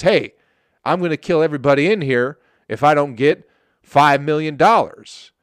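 mock gunman. Robber threatening everyone at a bank, lightly mocked gunman. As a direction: make a half-serious loud threat as a robber. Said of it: "somebody walks in with a gun".

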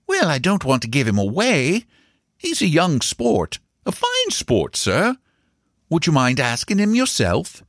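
high, earnest, deferential gardener; serious as a church, pitched high; serious servant. A narrator's reading. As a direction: voice the gardener high, solemn and respectful. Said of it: "Bassett was serious as a church".

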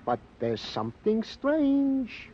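slow, hushed and ominous; dramatic slow reveal. Acted. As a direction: drag it out to build suspense. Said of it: "Hey, you did that good".

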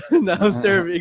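slow, drawn-out clerk call; DMV voice. Retold or imitated. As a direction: call the next number like a bored clerk. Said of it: "the D M V voice".

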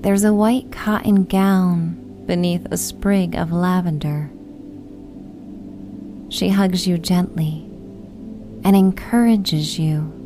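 usual speaking voice

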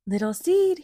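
fox calling loudly; shouted. A narrator's reading. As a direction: shout the name. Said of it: "he shouted".

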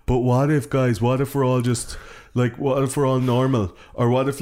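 mock worrier, pitched slightly up; fretful what-ifs, imitating a doom-monger; pessimistic. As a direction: voice a pessimist anxiously talking to friends. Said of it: "it's just so pessimistic".

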